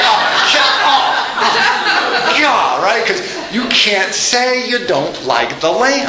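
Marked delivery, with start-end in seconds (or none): 0.1-2.8 mock awkward laughter, voice jumping higher; imitating embarrassed guests, laughing through it. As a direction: laugh nervously to cover the silence. Guests react awkwardly to lamp.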